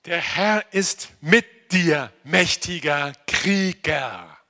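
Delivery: slow, solemn voice of God; solemn divine call. Acted. Quoting God's call to Gideon. (langsame, feierliche Stimme Gottes)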